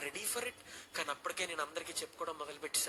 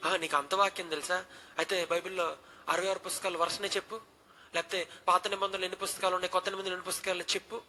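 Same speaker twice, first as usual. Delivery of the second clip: louder, demanding teacher's challenge; pressing stern quiz; 2 semitones higher, 5 dB louder than usual. Retold or imitated. Dean testing the student, loud and stern. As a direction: fire the questions at the boy. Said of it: "రెట్టించి మాట్లాడుతుంటే".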